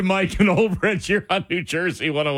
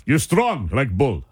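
mock Russian accent; 5 semitones lower than usual. Host jokes after Russian lesson.

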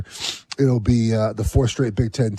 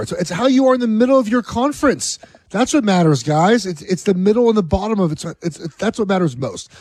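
mock whiny SEC fan; 7 semitones higher than usual. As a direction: play a whining rival fan, tongue in cheek. Sarcastically mimicking SEC whining.

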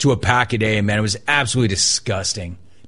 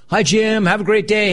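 much higher, bright greeting; imitating cheerful barista; 8 semitones higher than usual. Barista Val greeting a regular customer, mock cheerful high voice. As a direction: chipper morning hello to a regular. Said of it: "she's happy every freaking day".

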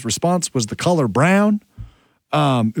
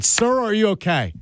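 higher-pitched, concerned call; urgent check; 8 semitones higher than usual. Retold or imitated. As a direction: check on someone who's just collapsed. Retelling his urgent check on man.

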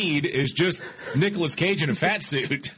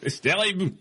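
put-on hammy French accent, laughing through it; over-the-top Frenchman, high and giggly; 7 semitones higher than usual. Mocking Macron in French accent.

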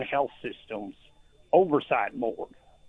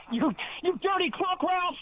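badly faked, much higher cartoon cowboy yell; Yosemite Sam. Disguised caller yelling a cartoon cowboy insult at the host. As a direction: ham up a hollering old prospector. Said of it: "That was the worst accent I've ever heard".

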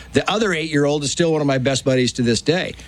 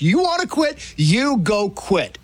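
mom's challenge; 3 semitones higher, slower than usual. Retold or imitated. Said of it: "My mom's the same way".

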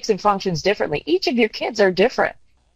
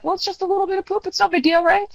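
high, light sing-song tease; high teasing mom voice; sing-song mock innocence; 12 semitones higher, faster than usual. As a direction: play innocent, sweetly high. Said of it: "I'm like".

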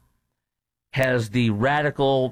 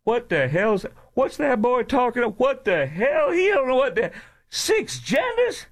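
much higher, put-on voice of an old Black man, puzzled and indignant; 12 semitones higher than usual. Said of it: "a sixty-something year old, a black guy saying".

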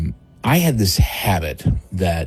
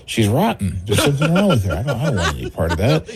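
laughing mock disgust; 4 semitones higher, faster than usual. Mock disgust about the girl.

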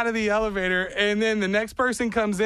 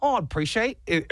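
put-on botched British accent sliding into Australian; British turning Australian; 2 semitones higher than usual. Passenger thanks him in elevator, British accent slipping into Australian. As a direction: try British, land nearer Australian. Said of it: "that's more of, like, uh, Australian".

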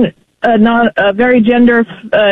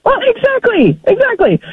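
emphatic agreement; 12 semitones higher than usual. Real, not acted. Caller eagerly agrees with host.

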